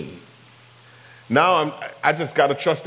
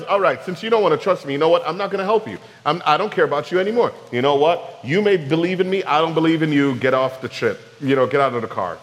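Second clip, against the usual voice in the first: a hint of an offended God giving up on us; mock huffy God, lightly voiced; petty God. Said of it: "That's exactly what we think he does".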